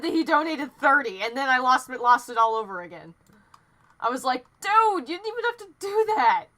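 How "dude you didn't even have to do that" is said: high, excited cry that cracks; overwhelmed thanks breaking up high; voice cracking. Real, not acted. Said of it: "Ah, voice crack".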